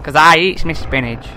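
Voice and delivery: slow, a hint of a Popeye sailor; lightly voiced old strongman, slow. Player voicing the old man as Popeye, slow.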